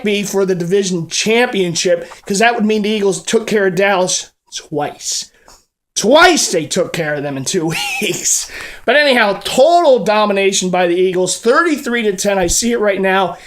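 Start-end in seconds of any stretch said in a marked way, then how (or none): 6.0-8.5 whispered giggle. Real, not acted. Gleeful aside, laughs.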